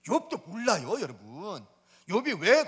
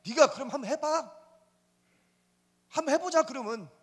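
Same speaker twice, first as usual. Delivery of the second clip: God answering Satan; 5 semitones higher than usual. Retold or imitated. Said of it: "사탄이 이렇게 제안이 오니까".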